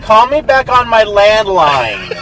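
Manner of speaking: put-on high, loud old lady on the phone. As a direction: ham up the fussy old lady. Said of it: "'Cause I'm an old lady".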